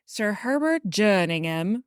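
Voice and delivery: a lightly faked British accent on the name; bad British accent. Podcaster starting the father's quote over, bad British accent. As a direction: put on a mild mock British accent. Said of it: "with a really bad British accent".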